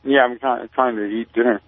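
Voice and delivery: talking while eating; mouth full. Real, not acted. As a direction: speak through a bite of food. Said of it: "Are you talking with your mouth full here?".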